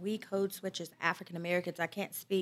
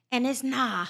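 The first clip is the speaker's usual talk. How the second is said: Liberian English; 4 semitones higher, 3 dB louder, slower than usual. Retold or imitated. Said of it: "he'll switch to how Liberians talk".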